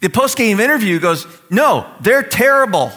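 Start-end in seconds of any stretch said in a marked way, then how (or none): 1.5-2.9 loud, slow, emphatic verdict; emphatic mock trashing. Mock interviewee trashing the other team, loud and emphatic. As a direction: trash them bluntly, punching each word.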